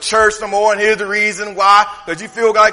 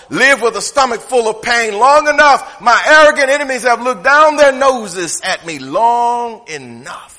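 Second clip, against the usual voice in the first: casual lament. Retold or imitated. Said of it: "He said it like this".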